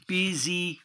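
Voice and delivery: Visitamos sounded out for learners. Shown as a demonstration. Teacher models the word in syllables.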